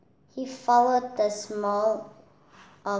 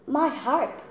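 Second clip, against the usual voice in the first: a mock cry, higher and a bit louder; 6 semitones higher, 4 dB louder than usual. Giant crying out as Jack steals his harp, mock alarm. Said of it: "he cried".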